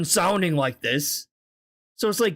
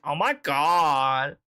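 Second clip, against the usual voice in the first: lightly put-on stereotyped gay voice, drawn out; mock-effeminate quote with stretched vowels; much slower than usual. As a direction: imitate an exaggerated gay affectation, stretching the words. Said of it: "they don't talk like that".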